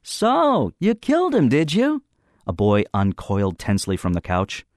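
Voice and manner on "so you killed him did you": higher, pompous schoolboy prosecutor; Brinker's mock trial voice. A narrator's reading. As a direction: play the self-important accuser. Brinker accuses in front of room.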